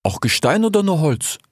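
lightly voiced sly desert fox talking to his friend; a hint of a streetwise fox, casual and teasing; fox character voice. Desert fox speaks to the sick grey fox, lightly voiced.

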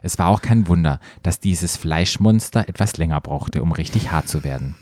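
low, measured read-aloud voice; story narration. A narrator's reading. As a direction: narrate it like an audiobook. Reads erotic story aloud.

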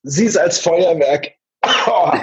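talking through a coughing fit; choking on a drink. Real, not acted. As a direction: still spluttering, short of breath. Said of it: "hol du erstmal noch ein bisschen Luft".

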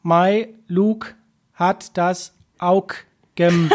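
very slow, words cut off after three letters. Shown as a demonstration. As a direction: chop every word short, slowly. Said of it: "ich kann nur mit drei Buchstaben sprechen".

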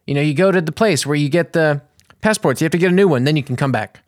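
imitating a strict, mean clerk; mean, strict official. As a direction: lay down the rules impatiently. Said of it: "And it was so mean. He was so strict".

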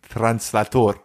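English word given a Spanish sound; lightly faked Spanish pronunciation; fake Spanish. Shown as a demonstration. Showing how to bluff a Spanish word, fake Spanish accent. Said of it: "dass es spanisch klingt".

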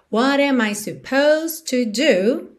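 slow, "supposed" as two syllables; silent E. Shown as a demonstration. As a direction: say "supposed" as "suh-POHZD". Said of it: "esse E aí não é pronunciado".

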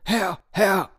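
high calling dog voice; barking dog. Acted. Dog calling the farmer, high barking call. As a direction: bark it out to the farmer. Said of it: "bellte der Hund".

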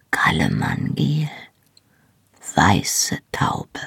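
low, intimate half-whisper; whispered endearments. A narrator's reading. Husband praises wife's hair and skin, whispered tenderly. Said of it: "flüsterte er".

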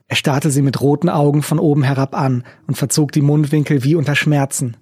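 ordinary delivery, nothing marked

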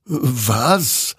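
high, startled question; puzzled surprise; astonished. A narrator's reading. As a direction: ask it in disbelief, pitch lifting. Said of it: "wunderte sich dieser".

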